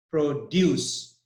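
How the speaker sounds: "produce" with the stress on DUCE; teacher demonstrating pro-DUCE in "produce"; stress on second syllable. Shown as a demonstration. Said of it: "The stress is on D U".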